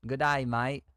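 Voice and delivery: tentative mock Australian; Australian accent. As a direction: practise an Aussie accent, badly faked. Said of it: "I can't even do an Australian".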